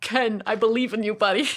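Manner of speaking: cheering on, lightly voiced; encouraging voice. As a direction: say it like a supportive friend. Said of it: "everybody's like".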